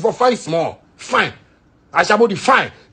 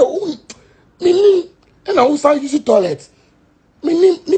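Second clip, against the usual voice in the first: high, loud squealing mockery; shrill mock protest, much higher and louder; mock girly squeal; 9 semitones higher, 3 dB louder than usual. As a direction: squeal it like a fussy girl. Mocking a girl's squeal.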